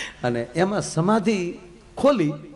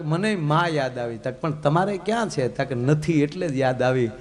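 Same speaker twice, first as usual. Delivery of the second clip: tearful; 4 semitones lower than usual. Retold or imitated. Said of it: "ભગવાન શિવ મળ્યા રડવા".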